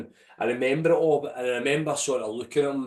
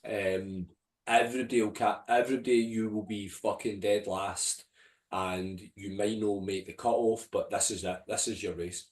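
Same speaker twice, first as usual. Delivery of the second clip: quiet self-talk; 4 dB quieter than usual. Retold or imitated. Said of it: "I remember saying".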